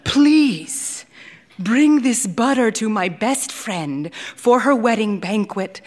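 gently beg, hands on heart; pleading. Acted. Lula to Saba, a mild plea for her friend. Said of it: "looking pleadingly at Saba".

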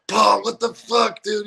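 high, drawn-out mock outrage; exasperated disbelief. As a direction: confront a friend in hammed-up disbelief. Confronting drummer over broken TV.

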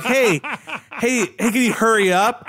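put-on high, whiny kid voice; an impatient child nagging; bratty kid. Kid at the counter nags the clerk, high and whiny.

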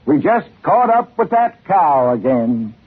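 lightly voiced calm conductor; serenely. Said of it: "said the conductor serenely".

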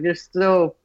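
a touch of pitying announcement; telling a struggling sparring partner the time left; sadly announcing. Retold or imitated. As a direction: break the bad news gently. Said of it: "I was like".

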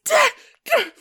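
high-pitched, cracking, laughing glee; hysterical laughter. Acted. Kara losing it on seeing her enemy, laughing hysterically. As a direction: gasp the words out through hysterical laughter. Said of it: "almost laughing hysterically on the ground".

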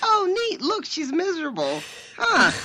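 high, loud mock fascination; mock delight. Playing God observing a miserable human, mock delight. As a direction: marvel at it like a delighted meddling God.

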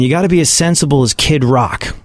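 normal talking voice

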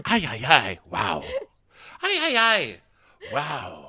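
mock Spanish-accented exclamations; Juan Pablo. Podcaster echoing the bachelor's amazement, Spanish accent. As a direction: echo a Spanish-accented bachelor's wowed cries. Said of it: "I love that you kept going".

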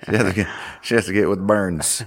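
lightly drawled Southern accent; a hint of a Southern accent. Shown as a demonstration. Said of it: "do you wanna try the Southern accent?".

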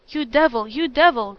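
loud, angry accusation; furious cry. A narrator's reading. Maraquito strikes Juliet in the face, crying out angrily. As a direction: hurl the insult loudly. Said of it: "cried Maraquito".

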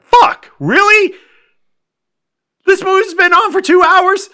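high loud exasperation; exasperated. Real, not acted. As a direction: groan at the long movie. Exasperated outburst.

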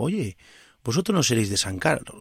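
lightly imitated Galician accent. Barman asks customers where they are from, imitated Galician accent. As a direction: retell it with a hint of Galician lilt. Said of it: "en ese acento gallego".

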